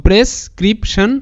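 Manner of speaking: slow, split into three beats; syllable by syllable. Shown as a demonstration. Teacher rebuilds the word for students, syllable by syllable. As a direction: sound out প্রেসক্রিপশন with a break between parts. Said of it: "ভাঙবো তারপরই উচ্চারণটা করব".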